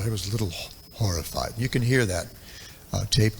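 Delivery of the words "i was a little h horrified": lightly imitating a voice gone strange and inward; a hint of the guru's changed, haunted tone; voice going somewhere else. Retelling how the guru voiced his horror, lightly mimicked. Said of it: "his voice just kinda, like, went to a different place".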